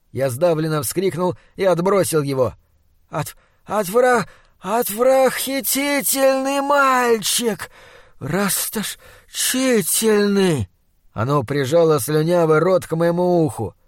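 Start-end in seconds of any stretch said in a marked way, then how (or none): 3.1-10.7 high, slow outraged monster shriek. Acted. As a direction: screech it out in disgust.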